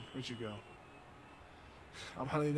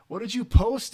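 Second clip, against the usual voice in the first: surprised; 8 semitones higher, 11 dB louder than usual. Real, not acted. Alarmed at teammate's post.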